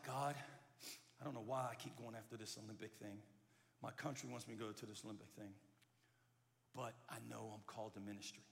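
low, subdued private prayer; wrestling with God. Retold or imitated. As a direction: softly voice an inner struggle, low. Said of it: "And he's wrestling".

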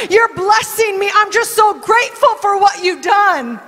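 rising, swelling praise to God; grateful prayer. Acted. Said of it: "she's like".

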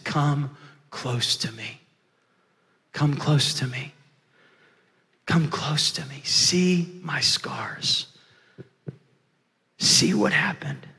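slow, soft, beckoning plea; gentle invitation. Acted. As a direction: draw frightened brothers close, hushed and slow. Joseph draws his terrified brothers near.

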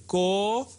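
KOOO... desh for "Kodesh", stretched on the accent; lingering first syllable. Shown as a demonstration. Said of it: "You just linger longer".

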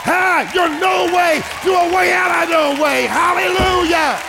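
rising shout of praise. Real, not acted. Preacher building the congregation to a climax, exultant shout. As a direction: lift it to a triumphant cry.

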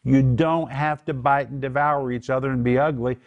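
acted categorical insistence. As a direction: lift your voice as if calling people to attention. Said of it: "he lifts his voice and says".

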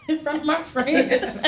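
mocking laugh. Mocking friend's plea.

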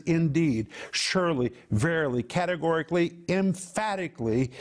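insistent, each word separately stressed; emphatic list, word by word. Acted. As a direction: hammer each synonym as beyond question. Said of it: "Isaiah is speaking emphatically".

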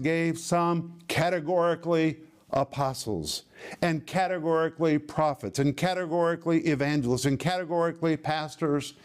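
firm stress on each "categorically"; insistent, repeated weight on "categorically"; emphatic "categorically". Shown as a demonstration. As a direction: drive home "categorically" before every noun. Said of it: "so categorical and emphatic".

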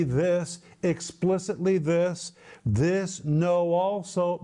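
weight on "this", drawn out slowly at the end; emphatic pointing. Acted. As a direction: point hard at each "this", then slow right down. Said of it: "pointing at something emphatically".

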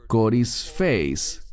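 "coris feis" said slowly, syllable by syllable, koris feis; Greek word spelled out. Shown as a demonstration. Teacher introducing the Greek term "coris feis" slowly. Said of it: "es la palabra".

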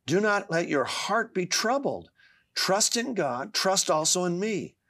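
earnest recitation, pitch climbing on key promises; scripture recitation. Acted. Reading what the Lord said to an anxious father, earnest scripture recitation. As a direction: recite Jesus' words with rising insistence.

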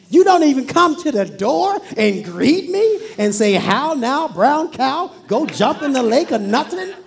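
a preacher acting out Naaman's outrage; furious Naaman. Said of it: "became furious".

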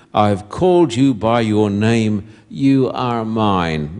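slow, forceful preaching read; preacher reading Isaiah to the congregation, forcefully; preaching scripture. Acted. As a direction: proclaim each line, building.

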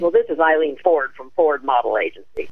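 a hint of a rough, gravelly older woman; grovelly rough voice. Agent Eileen Ford phoning Nancy, lightly voiced gruff and gravelly. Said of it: "She had this grovelly, rough voice like this".

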